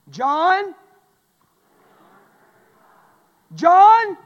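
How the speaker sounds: shouted high, each word alone; drilling the verse. Shown as a demonstration. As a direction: hammer the verse into memory. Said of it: "you've learned one".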